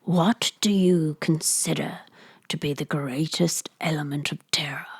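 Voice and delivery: a hint of a brooding friend, dropping to a whisper; Hammond's voice. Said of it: "I gotta do a, a voice".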